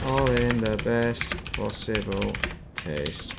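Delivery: slow, drawn-out hint of a camp comedian; Kenny Everett catchphrase. Streamer recalling a comedian's catchphrase, slow light impression. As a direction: stretch it out like a TV catchphrase, lightly voiced. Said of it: "Kenny Everett, that's him".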